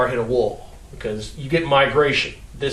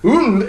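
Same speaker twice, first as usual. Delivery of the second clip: imitated wheel jolt grunt; 4 semitones higher than usual. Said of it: "the wheel goes".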